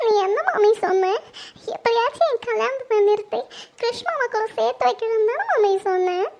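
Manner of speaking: crying accusation; tearful reproach. Acted. Daughter reminding her mother of a promise, tearful reproach. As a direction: reproach her through tears. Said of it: "எதுக்கும்மா அவந்திக்கு அழுதுட்டு இருக்கா?".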